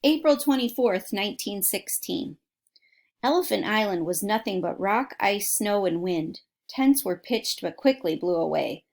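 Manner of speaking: put-on reading a book aloud to kids; steady storybook reading voice; story narration. A narrator's reading. Reads a book aloud to listeners.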